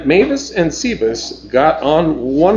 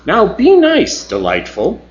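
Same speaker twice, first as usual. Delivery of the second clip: Bronson; 8 semitones higher than usual. Acted. Bronson chiding Dell.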